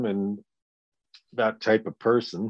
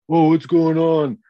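mock surprised Jason; 9 semitones higher, 8 dB louder than usual. Jason arriving, voiced.

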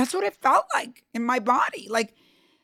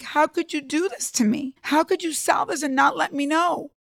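mild retold crying plea; 5 semitones higher than usual. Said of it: "I started crying".

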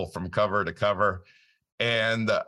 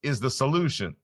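imitated mentor delivering the answer, pitched up; higher, emphatic teaching voice; Nelson Nash; 6 semitones higher than usual. Host quotes friend resolving the lesson, imitated mentor's voice. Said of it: "in perfect Nelson form".

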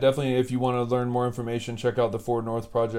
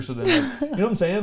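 high squeaky voice; 12 semitones higher, 4 dB louder than usual. Pretend. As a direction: jump way up into a squeaky voice. Joking about driving faster.

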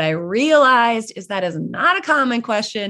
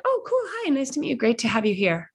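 high, bright-faced brush-off, softer; polite but uninterested; 5 semitones higher, 3 dB quieter than usual. Retold or imitated. Networker brushing off a plain realtor intro, politely uninterested. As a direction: sound politely unimpressed. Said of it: "I'd be like".

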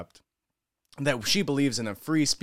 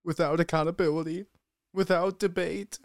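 sing-song mock echo of "Without accountability, without debate", pitched higher; mocking parody of the press secretary; 4 semitones higher than usual. Commentator mocking the press secretary's farewell speech, sneering parody. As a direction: parrot her lines back in a sneering, higher voice.

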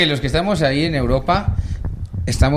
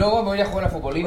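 imitating his thoughts; 5 semitones higher, 5 dB quieter, faster than usual. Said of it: "como está pensando".

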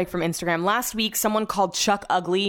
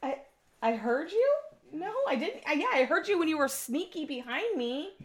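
still shaken; 9 semitones higher, 7 dB quieter than usual. Real, not acted. Still shaken, talking to husband.

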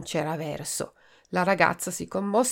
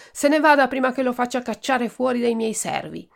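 higher, firm dismissal; angry threat; 6 semitones higher, 4 dB louder than usual. Acted. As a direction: threaten to have him thrown out. Pomodoro throws doctor out. (Pomodoro caccia il dottore, arrabbiato)

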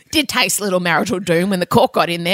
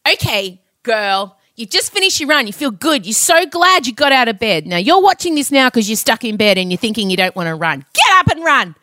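motivational pep talk. Retold or imitated. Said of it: "I'll get back from a run and I'll go".

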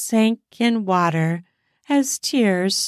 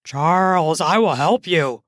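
lightly voiced Max; 4 semitones lower than usual. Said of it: "Max said".

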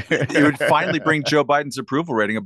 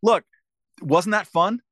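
high, cheery mock press secretary spin; imitating a chirpy press secretary; 9 semitones higher than usual. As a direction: sell it like a giddy press secretary. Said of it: "she would be out there saying".

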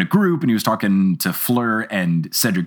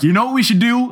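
mock scheming voice; 11 semitones higher, faster than usual. Mocking the film director's idea.

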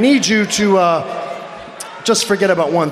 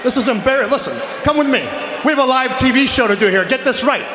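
angry scolding; 5 semitones higher than usual. Acted. Boss scolding the announcer.

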